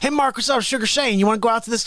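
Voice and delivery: imitated Southern buddy, pitched a bit up; Southern accent. Buddy inviting the musician out, imitated Southern accent. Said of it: "like, Southern accent".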